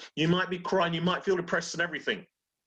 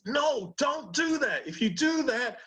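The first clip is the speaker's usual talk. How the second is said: voiced amygdala; 10 semitones higher than usual. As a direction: squeak out a frantic fearful warning, much higher. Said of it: "But the amygdala says".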